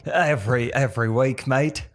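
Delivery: mock Australian accent, echoing the caller. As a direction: imitate an Aussie speaker. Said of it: "get good at that Australian accent".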